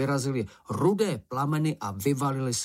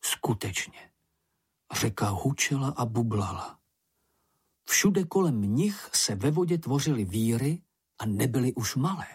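usual speaking voice

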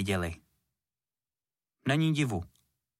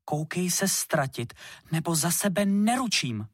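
stern warning; 6 semitones higher than usual. A narrator's reading. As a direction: threaten him sternly. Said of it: "tvářila opravdu přísně".

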